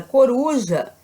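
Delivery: "coruja" with weight on the middle ru; stressed syllable shown. Shown as a demonstration. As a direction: stretch the ru in "coruja". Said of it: "A sílaba com mais força".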